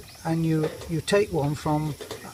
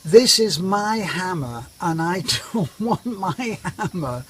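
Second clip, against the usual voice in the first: slow, deliberate and a touch louder, laughing partway; mock foreigner firmness; 3 semitones higher, 4 dB louder than usual. Husband to wife over the borrowed hammer, mock stern. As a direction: lay down the law slowly, half laughing. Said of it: "in typical foreigner fashion".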